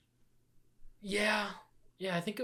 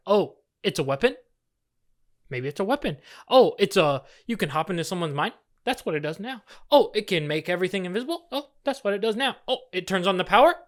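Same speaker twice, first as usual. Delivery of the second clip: sarcastic mocking; faster than usual. Mocking the film's writers.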